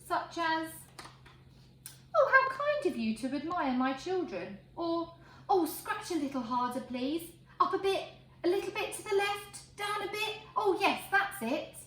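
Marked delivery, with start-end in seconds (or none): 2.1-4.6 a proud sow, pleased and gracious; a sow thanking the admirer of her piglets, pleased; proud mother pig. Acted. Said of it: "things a pig might say". 5.5-11.8 higher, giggly pig being scratched; a pig asking for a scratch, rising delight; blissful pig. Acted. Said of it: "things a pig might say".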